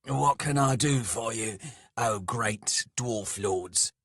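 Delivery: emphatic humble address, slowing on the title; forced deference. A narrator's reading. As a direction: swallow the sarcasm and offer service loudly. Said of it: "bit back various sarcastic comments".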